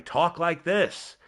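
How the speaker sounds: slow, measured commentator delivery; commentary voice. Shown as a demonstration. Streamer demonstrating his wrestling commentary voice, slow and deliberate. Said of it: "I talk like this".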